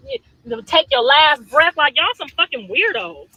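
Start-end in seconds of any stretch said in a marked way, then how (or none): 0.6-1.8 mock threat, said slowly and deliberately; slow menacing quote. Mother quoting a commenter's threat, slow and menacing. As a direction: drag out the threat word by word. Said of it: "told me consequences pending".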